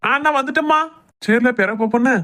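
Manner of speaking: high, obedient call back; henpecked husband calling back; hurried answering call. Acted.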